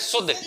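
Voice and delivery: शुद्ध with a short, quick u. Shown as a demonstration. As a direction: keep the vowel in शुद्ध short. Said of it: "छोटे ऊ की मात्रा को छोटा बोलते हैं".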